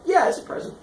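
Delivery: high-pitched placating voice; mock-sweet reassurance; coaxing father. Father coaxes son with gift.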